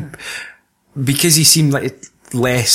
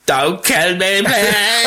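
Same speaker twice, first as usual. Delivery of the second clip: mock pleading; 8 semitones higher, much slower than usual. Quoting a famous line.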